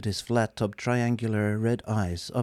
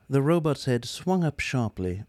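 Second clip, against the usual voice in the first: ordinary delivery, nothing marked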